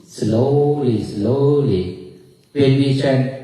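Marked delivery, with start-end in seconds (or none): 0.1-2.1 each word drawn out; slowly. Shown as a demonstration. Monk likening old-age chanting to walking elephants, slowly drawn out. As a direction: stretch the long vowel in each word. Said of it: "like a do like this".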